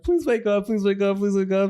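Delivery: high, repeated plea, acted lightly; retold pleading. Kid shaking his dead dog, pleading. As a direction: beg over and over, imitating a frightened kid.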